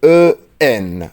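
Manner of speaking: او ان stretched slowly, loud and nasal; او ان drawn out as one nasal vowel; drawn-out demo. Shown as a demonstration. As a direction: hold او ان long for the students. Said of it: "اي ان،".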